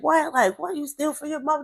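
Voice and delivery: high, loud imitated shock; shocked disbelief. Kids hearing she stole, imitated high disbelief. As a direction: act out an astonished, accusing question. Neighbourhood kids' retold shock.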